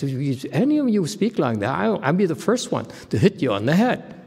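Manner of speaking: reenacting how he told her off, voice climbing high; indignant rebuke. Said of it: "I said".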